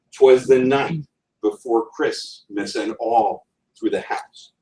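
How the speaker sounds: slow "'Twas the night before Christmas" with da-da-DUM beats; anapestic recitation. Shown as a demonstration. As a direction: recite it slowly to the beat. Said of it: "Boom, boom, boom".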